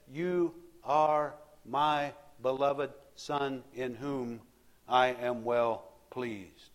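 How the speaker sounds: lightly voiced God, drawn out slowly; God speaking. Preacher voicing God from heaven, slow and solemn.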